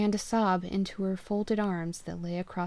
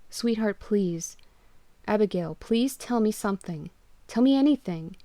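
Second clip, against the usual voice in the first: louder, urgent fatherly coaxing; desperate to find her; urgent pleading; 2 semitones higher, 5 dB louder than usual. Acted. Father urgently pleading with his lost daughter on the phone.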